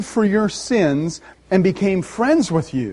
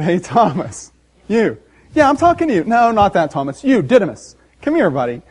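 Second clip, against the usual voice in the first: teasing, friendly call to Thomas; playful Jesus; 3 dB louder than usual. Retold or imitated. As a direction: call him over like a buddy. Jesus voiced calling Thomas over.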